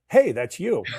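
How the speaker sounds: high, loud, laughing tease; teasing wife. Retold or imitated. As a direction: poke fun at him, laughing.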